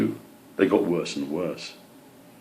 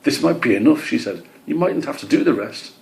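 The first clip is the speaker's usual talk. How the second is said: greenfinch voice; 6 semitones higher than usual. Acted.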